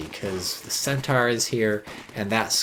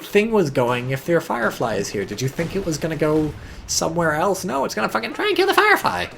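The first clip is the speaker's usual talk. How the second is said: high, loud disbelieving rant at the player; shrill-free mock outrage, much higher and louder; exasperated rant; 10 semitones higher, 4 dB louder than usual. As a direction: yell at him like he's lost his mind. Berating the player's misplay.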